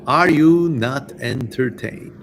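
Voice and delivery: slow, lightly voiced arena challenge; gladiator quote. Streamer asking chat for coffee money in a slow mock gladiator challenge. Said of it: "All these theatrics".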